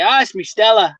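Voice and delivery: lightly put-on Australian bloke; mock Australian twang; imitated Aussie accent. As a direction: say it as an Aussie would. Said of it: "They say".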